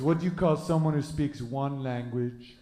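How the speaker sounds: lightly put-on French accent; mock French accent. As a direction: imitate a Frenchman setting up the punchline. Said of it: "this one French guy".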